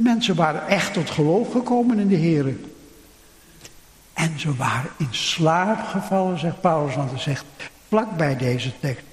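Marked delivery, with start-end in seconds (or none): none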